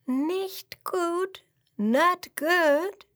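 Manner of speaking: high, alarmed cry of the princess. A narrator's reading. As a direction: cry it out in sudden worry. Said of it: "schaut erschrocken ... ruft sie".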